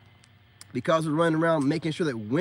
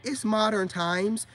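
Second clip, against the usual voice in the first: slightly higher, slow quoted voice; mimicking online women; 4 semitones higher, slower than usual. Women online saying they don't need men, slow mimicry. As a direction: draw it out a little higher, quoting them. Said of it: "while saying".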